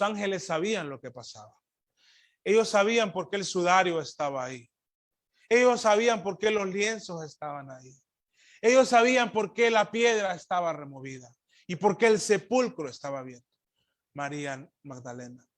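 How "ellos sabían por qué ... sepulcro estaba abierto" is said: raised, driving preacher's voice; emphatic preaching. Real, not acted. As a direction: build each repeated phrase with conviction. Preacher builds repeated phrases.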